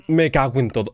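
loud frustrated curse; frustrated cursing. Real, not acted. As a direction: swear at the game. Just died in game.

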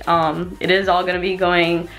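slightly breathless talking; out of breath. Real, not acted. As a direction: speak a little winded. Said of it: "I'm so out of breath".

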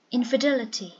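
infidelity, punched on the third syllable; third-syllable stress. Shown as a demonstration. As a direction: model infidelity with the weight on "del". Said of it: "The third one, dull, is stressed".

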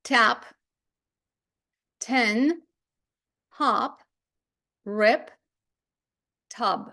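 "Tap, tin, hop, rip, tub" each with a short vowel; isolated drill words, "hop" and "tub" kept short-vowelled; short-vowel reading. Shown as a demonstration. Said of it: "прочитання є таке".

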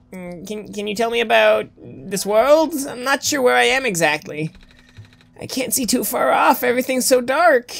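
lightly voiced, unsure lost newcomer. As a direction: ask hesitantly, as someone lost.

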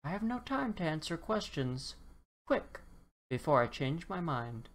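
lightly voiced hurried leprechaun; a hint of a busy leprechaun; impatient leprechaun. Leprechaun pushes dinosaur to wish, lightly hurried.

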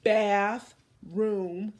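"Bathroom" held long with a rising tune; drawn out word. Shown as a demonstration. Teacher modeling a compound word, drawn out and rising. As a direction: stretch "Bathroom" in two parts, rising. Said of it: "Your turn".

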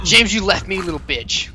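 being chased. Real, not acted. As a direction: yell at friend while fleeing. Left alone, chased by ants.

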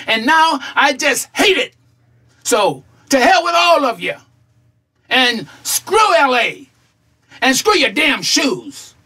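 acted, mildly heated farewell rant; indignant telling-off. Retiree to his colleagues at his send-off, indignant telling-off. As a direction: tell them all off, with emphatic pauses.

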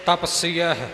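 ਤਪਸੀਅਹ said the correct way, with the final ਹ; correct pronunciation. Shown as a demonstration. Teacher giving the pure pronunciation of ਤਪਸੀਅਹ. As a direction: say ਤਪਸੀਅਹ carefully, ending on the ਹ. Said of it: "ਇਹ ਉਚਾਰਨ ਸਹੀ ਹੈ".

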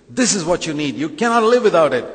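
the devil in Eden, luring Eve with a sales pitch; coaxing devil. Acted. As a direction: sell it like a sly tempter. Devil's advert voice.

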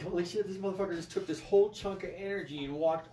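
high, loud, laughing through the words; laughing retelling. Retold or imitated. Telling the room about Buddha, laughing. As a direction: crack up while telling it.

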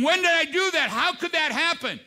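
king realising what he has done; aghast. Retold or imitated. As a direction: cry out in shocked confusion.

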